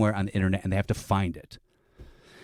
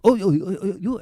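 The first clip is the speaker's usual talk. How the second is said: mock surprised recognition; 10 semitones higher than usual. Acts out the lawyer recognizing him.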